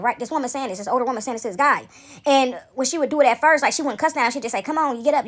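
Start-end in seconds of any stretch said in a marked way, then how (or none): 4.6-5.3 mildly stern, higher-pitched imitation; lightly imitated sternness. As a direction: retell a firm order to get up. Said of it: "with a st-, more sterner vo-, voice".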